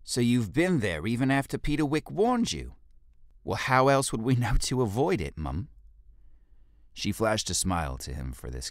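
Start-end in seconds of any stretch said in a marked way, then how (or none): 0.0-2.8 much higher, louder stern orders; commanding leader. Acted. Jolie questions. 3.4-5.7 louder, higher, laughing through the excuse; sheepish laughing reply. Acted.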